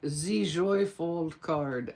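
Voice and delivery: slow, hammed-up bad French accent on Z Joy fold card. Shown as a demonstration. Crafter naming her card for viewers, in a bad French accent. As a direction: say the card name like a cheesy Frenchman, slowly. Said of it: "you have to say it with a French accent, even if it's a bad one".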